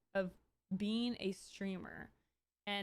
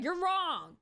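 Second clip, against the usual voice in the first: mocking troll; 9 semitones higher, 5 dB louder than usual. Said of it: "And you're like".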